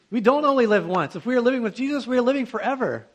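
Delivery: loud, high, emphatic declaration; a preacher raising his voice to correct; emphatic preaching. Acted. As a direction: proclaim it with full force.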